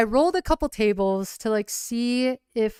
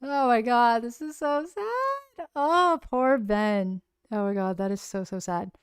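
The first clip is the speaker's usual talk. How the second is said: character grieving; 2 semitones higher than usual. Acted. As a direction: mourn poor Ben with a breaking voice. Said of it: "So it was like".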